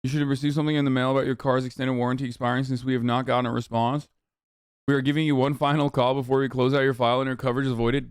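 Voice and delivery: fast, scripted robocall read. Retold or imitated. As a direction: rattle it off like an automated warranty call. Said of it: "It's a robocall".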